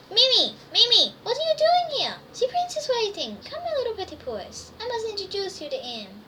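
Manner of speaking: high, loud fussy lady's cry; Madame Frou Frou calling. A narrator's reading. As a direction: call out to her, high and excited. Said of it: "It was Madame Frou Frou".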